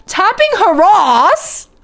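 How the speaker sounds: incredulous echo. Real, not acted. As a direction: repeat it slowly as if misheard. Echoing a misheard phrase from chat.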